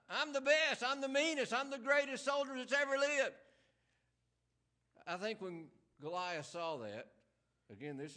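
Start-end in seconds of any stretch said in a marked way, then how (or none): 0.1-3.3 boastful giant. Acted. Preacher voices boastful Goliath.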